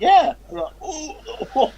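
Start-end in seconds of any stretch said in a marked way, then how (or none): 0.0-0.3 laughing yeah. Retold or imitated. Friend's reply voiced, laughing. 0.8-1.7 laughing oh. Retold or imitated. Retold horrified reaction.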